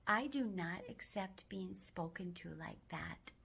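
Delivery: slow, deliberate and firm; firm demo line. Shown as a demonstration. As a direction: set a boundary calmly. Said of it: "I want you to say".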